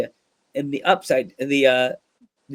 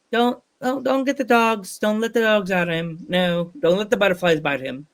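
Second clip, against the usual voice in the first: imitated absent woman; 5 semitones higher than usual. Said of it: "She'll be like".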